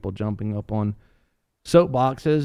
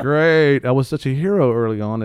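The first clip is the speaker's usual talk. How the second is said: sarcastic David; 3 semitones higher, 5 dB louder than usual. Retold or imitated. David voiced, sarcastic regret.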